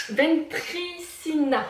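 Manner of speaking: put-on slow, drawn-out amateur Italian accent; attempted Italian accent. Vlogger naming the cured sausage, slow put-on Italian accent. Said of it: "Désolée pour mon accent italien".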